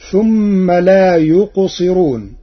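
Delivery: يقصرون with a thin, light ra; يقصرون said with the ra softened after the kasra; Warsh light ra. Shown as a demonstration. Teacher reciting Warsh's thin ra, slowly. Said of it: "بترقيق الراء".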